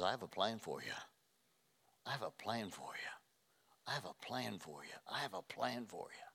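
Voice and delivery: soft, low repeated promise; quiet, intimate voice of God. Acted. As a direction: say it gently over and over.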